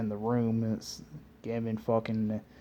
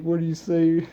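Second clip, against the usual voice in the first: higher and pushed, hammed-up Naruto challenge; half-acted angry kid ninja shout; mock Naruto yell; 7 semitones higher, 8 dB louder than usual. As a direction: bark it at the kid, playing it up. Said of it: "He was like".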